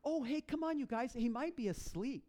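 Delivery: teasing, starts high and eases down; lightly acted taunt, feigning helpfulness; mocking. Elijah taunting the prophets of Baal, mocking. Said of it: "He starts laughing at him".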